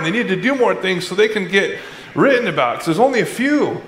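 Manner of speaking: a fussing parent who can't let go, half joking; fretting mom. Pretend. Preacher voicing Jesus as a fretting mom about the disciples, lightly mock-worried. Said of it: "Any moms, you'd be there. Go".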